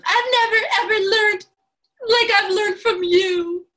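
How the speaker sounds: high, loud, teary gushing; hammed-up tearful gratitude; gushing imitation of Isabella. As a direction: squeal it like an overwhelmed fan. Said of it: "something along the lines of".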